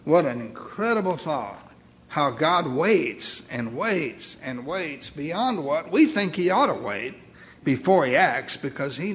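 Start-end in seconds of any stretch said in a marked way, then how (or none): 2.1-5.6 slow. Real, not acted. Preacher dwelling on God's waiting.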